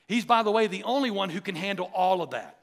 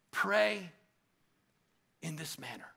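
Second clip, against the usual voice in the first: hushed emphasis; 4 semitones lower, 7 dB quieter than usual. Shown as a demonstration. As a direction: lower and quieter, letting each word land. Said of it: "Jesus is saying".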